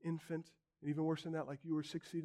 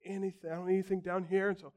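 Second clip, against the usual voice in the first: smug self-satisfied; 3 semitones higher, 4 dB louder than usual. Retold or imitated. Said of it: "the temptation is to take that attitude".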